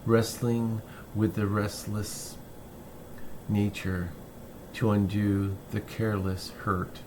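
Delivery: measured poetry reading, phrase by phrase with pauses; poem reading. Acted. Poet reads "Boyhood of a Dog" to listeners, measured recital. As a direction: read it as verse, unhurried, pausing at line breaks.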